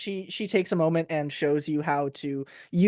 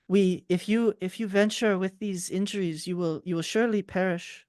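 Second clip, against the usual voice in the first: put-on generic French accent, lightly done; a hint of a French gnome voice. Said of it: "me trying to do a generic French voice".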